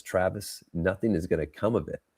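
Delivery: softly voiced inner doubter; little inner voice. Inner voice doubting the cold send, said softly. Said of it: "this little voice in, inside my head".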